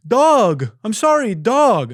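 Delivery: high, loud, strained voice of a lost driver; a panicked, high-pitched delivery guy; confused delivery driver. Retold or imitated. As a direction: play the flustered driver on the phone. Driver explaining on phone.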